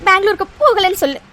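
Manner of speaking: halting, through sobs; tearful demand. Acted. Crying mother asking her son to stay, tearfully. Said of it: "அழாதீங்கம்மா".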